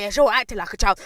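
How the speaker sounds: loud mimicked accusation; imitated shouting. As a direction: throw it back loudly, as her. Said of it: "why are you shouting at me?".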